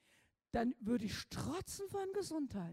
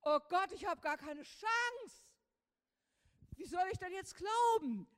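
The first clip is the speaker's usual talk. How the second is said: retold despair; 7 semitones higher, 3 dB louder than usual. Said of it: "da sagte ich".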